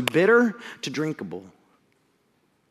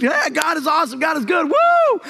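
excited praise; 9 semitones higher, 4 dB louder than usual. Retold or imitated. Israelites praising God after sea.

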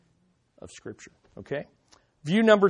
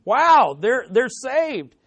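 higher, enthusiastic exclamation; acted excitement; 5 semitones higher, slower than usual. Preacher voicing the joy over new converts, excited. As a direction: play a thrilled onlooker, drawing it out. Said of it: "there's excitement, there's enthusiasm".

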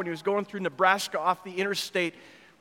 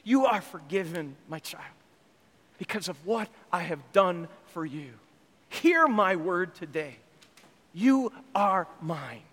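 tender voice of God; 3 semitones lower than usual. Acted. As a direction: speak gently as a father to a child. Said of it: "And God says".

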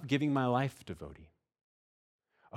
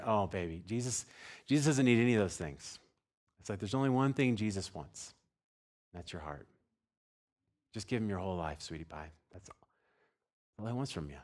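put-on tender to child. Father answers his little daughter.

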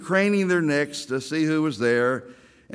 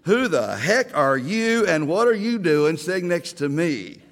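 mock-indignant challenge, a little louder; hammed-up rude demand; heard as hostile; 2 semitones higher, 4 dB louder than usual. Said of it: "how I heard it was".

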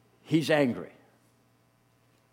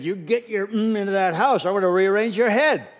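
mock threatening dad; 4 semitones higher, 4 dB louder than usual. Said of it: "he would have come out with a two-by-four".

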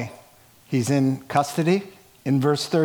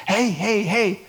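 lightly played pleading apostle; begging for the mic, half-joking; a hint of a bloodied man begging to speak; mildly voiced eager Paul; 2 semitones higher than usual. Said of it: "He says".

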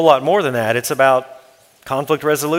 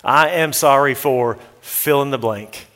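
sincere apology. Shown as a demonstration. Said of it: "We confess with specificity the offense".

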